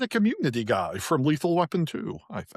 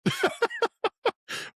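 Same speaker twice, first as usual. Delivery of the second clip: mock Tim Curry laugh. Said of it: "How's that Tim Curry impression?".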